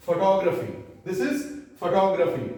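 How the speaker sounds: photography as fuh-TOG-ruh-fee; corrected pronunciation. Shown as a demonstration. Teacher puts the word together, photography with TOG stressed. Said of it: "तो ग्राफी क्या हो जाएगा?".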